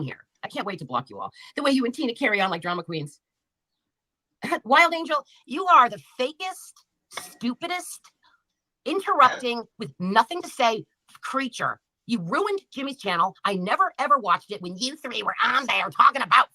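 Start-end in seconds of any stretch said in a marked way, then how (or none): 4.6-11.8 louder, higher, slowed-down insult; angry insult. Real, not acted. Streamer yelling at Wild Angel in chat, slow angry shout. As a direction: hurl it at her, each word weighted.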